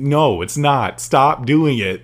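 exasperated scolding. Acted. Host telling crying posters to stop, exasperated. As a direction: tell them off, loud and emphatic.

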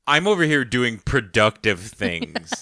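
slow, self-important mock superiority; imitated patronizing brag; condescending. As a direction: draw it out as if above everyone. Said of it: "It just felt so condescending".

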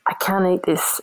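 whispered, not wanting the hosts to hear; whispered aside about the bad meal; horrified whisper. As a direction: keep it hidden from the kind couple, whisper. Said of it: "And I was like".

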